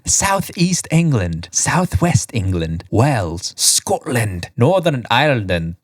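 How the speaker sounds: badly faked Northern Irish accent, lilting; attempted Northern Irish accent. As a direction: read the list in a mock Northern Irish accent. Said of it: "That was my Northern Ireland accent".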